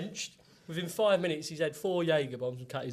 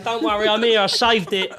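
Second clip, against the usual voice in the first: loud, raised-pitch announcement to the room; mock-heroic arrival; 5 semitones higher, 12 dB louder than usual. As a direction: burst in like you've saved the day. Announces his late arrival loudly.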